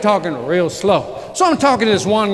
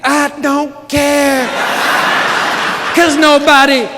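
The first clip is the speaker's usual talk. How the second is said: mock indifference; 5 semitones higher, 4 dB louder, much slower than usual. Joking shrug at the audience.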